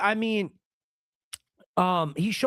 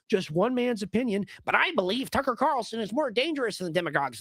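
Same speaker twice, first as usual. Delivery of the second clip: somewhat higher, lightly voiced pompous pundit; mocking Mark Levin; 6 semitones higher than usual. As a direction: read it like a smug pundit, mocking. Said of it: "The devil, Mark Levin".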